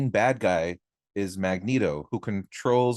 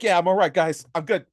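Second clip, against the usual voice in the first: mock party bro; 6 semitones higher than usual. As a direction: hype the room up for shots. Acting drunk party guy offering shots.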